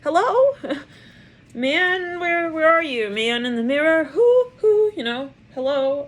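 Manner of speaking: high, loud, laughing call through the window; hollering up at someone who isn't answering; giggly, high-pitched hello; mock calling out. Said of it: "They're like".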